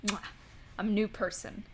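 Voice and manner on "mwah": quick "mwah" smooch; kiss noise. Pretend. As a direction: smack out a short kiss.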